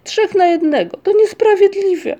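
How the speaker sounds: high, loud indignant protest; acted outcry at unfairness; calling out. A narrator's reading. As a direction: complain loudly to mother like a wronged child. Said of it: "zawołał".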